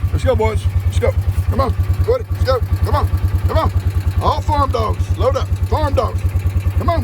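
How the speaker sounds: high, cheery call to the dogs. Real, not acted. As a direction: round up the farm dogs. Calling the farm dogs to load up.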